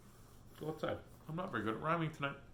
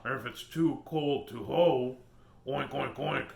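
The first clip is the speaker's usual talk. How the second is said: pig voice; 4 dB louder, slower than usual. Acted. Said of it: "says the pig".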